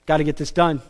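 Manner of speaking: lightly voiced commander, low and understated; brief the men quietly before the drop; a hint of a low, terse movie officer; war-movie commander. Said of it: "the commander looks at him and says".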